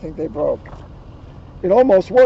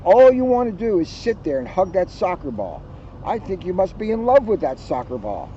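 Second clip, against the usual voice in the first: complaining sister; 3 semitones higher than usual. Acted. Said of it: "she complained".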